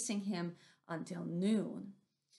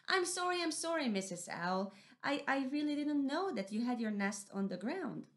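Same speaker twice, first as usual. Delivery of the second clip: higher, flustered little voice; apologetic mouse deer; 5 semitones higher than usual. Acted. Mouse deer apologizing to Missus Owl. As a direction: stammer an apology.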